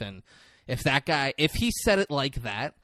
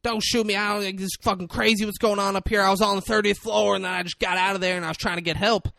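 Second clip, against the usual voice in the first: high, panicked fake American accent; pleading in a put-on American voice; 8 semitones higher, 5 dB louder than usual. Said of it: "hits him with a fake accent".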